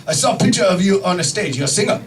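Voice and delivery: Japanese-accented doctor impression; mock Japanese-accented doctor; imitated Japanese accent. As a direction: put on a thick Japanese accent. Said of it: "this is how he spoke".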